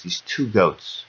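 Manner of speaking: slowly, weighing each word; slow and deliberate. Shown as a demonstration. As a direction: lay out these two goats slowly. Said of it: "repeats phrase for emphasis".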